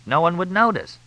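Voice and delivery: high-pitched declamation; declaiming. A narrator's reading. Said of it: "Fletch declaimed".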